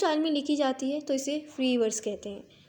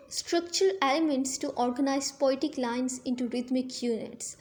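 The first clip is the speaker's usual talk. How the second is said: very slow, evenly spaced definition; slow dictation; much slower than usual. Shown as a demonstration. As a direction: read it slowly so students can write. Reading out a definition slowly. (धीरे-धीरे परिभाषा लिखवाना)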